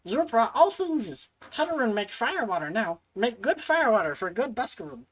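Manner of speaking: a proud little brewer; eager creature merchant; Tetaroon voice. Acted. Tetaroon brewing fire water.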